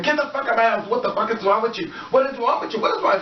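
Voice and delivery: high-pitched, hammed-up raving; mock crazy rant. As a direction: rave at the wall like you're unhinged, in play. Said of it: "turn your head and say".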